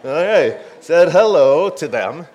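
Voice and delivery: amused disbelief. Real, not acted.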